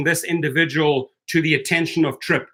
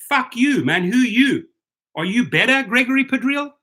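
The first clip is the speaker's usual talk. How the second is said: higher, indignant; angry outburst; 7 semitones higher than usual. Real, not acted. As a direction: fire it straight at him. Angry rant at a critic.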